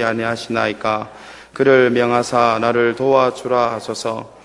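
slow, measured Bible reading aloud; scripture reading. Acted. Pastor reading scripture aloud to the church, slow and measured. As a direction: read the passage steadily to the congregation.

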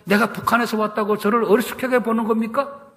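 retold protest. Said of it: "목사님에게 이 성경책을 던지며 따졌습니다".

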